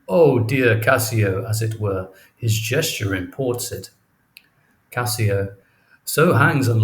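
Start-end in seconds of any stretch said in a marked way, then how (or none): 0.1-1.4 mock swoon.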